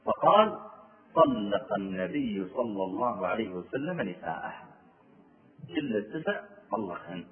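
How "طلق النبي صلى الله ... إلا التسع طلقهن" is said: lower, softer, slow; a hushed, heavy whisper of news; hushed grave news. Retold or imitated. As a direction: break the terrible news gently. Telling terrible news.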